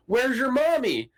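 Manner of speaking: high, slow cooing to a puppy; slow, high doggy-talk voice; baby talk to a dog. Retold or imitated. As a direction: ask the doggy sweetly, stretched out. Asking the dog where its owner is.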